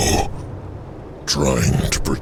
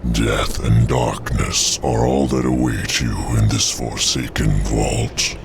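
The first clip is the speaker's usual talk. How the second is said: ominous guardian voice. Acted. Guardian warns of cursed vault.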